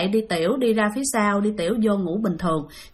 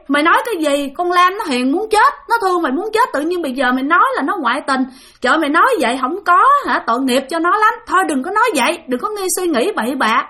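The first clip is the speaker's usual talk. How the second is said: higher and louder, brushing off a silly worry; incredulous scolding; 5 semitones higher, 3 dB louder than usual. Retold or imitated. Drinking buddies chide crying Cường, in a higher, louder disbelieving voice. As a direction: scoff at him, he's being ridiculous, say it loud.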